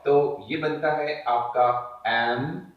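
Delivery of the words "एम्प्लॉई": "एम्प्लॉई" broken as एम, long pause, प्लॉ-ई; separate final ई. Shown as a demonstration. Teacher showing how the sound comes out, "एम्प्लॉई" ending in separate ई. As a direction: draw out "एम्प्लॉई" with a distinct long ई at the end. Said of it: "इस तरीके से ये sound निकल करके आएगा".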